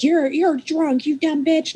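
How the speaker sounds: high, slow mock drunken jeer; mock drunk insult. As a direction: imitate a sloppy drunk woman sneering. Drunk woman insults her.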